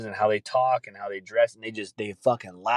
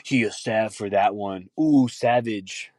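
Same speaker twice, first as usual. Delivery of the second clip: mocking slang kid; slower than usual. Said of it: "These fucking kids".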